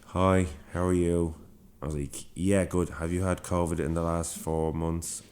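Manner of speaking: slow, deadpan mock greeting and question; imitating stone-faced staff. Stone-faced worker screens a keen patient, deadpan. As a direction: put on an unmoved, drawn-out official manner. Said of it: "Everybody was just stone faced".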